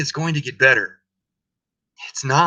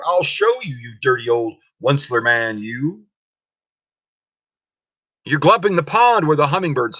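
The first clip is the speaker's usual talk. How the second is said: a lightly voiced, scolding Lorax; Lorax with his dander up; 2 semitones higher than usual. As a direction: lecture the Onceler about his mess, annoyed. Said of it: "his dander was up".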